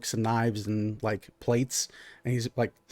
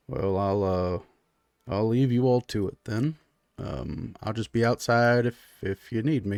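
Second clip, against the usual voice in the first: low, halting, understated exit; meek husband; 3 semitones lower, 3 dB quieter than usual. Acted. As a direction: excuse yourself quietly and hesitantly. Clyde excuses himself from table.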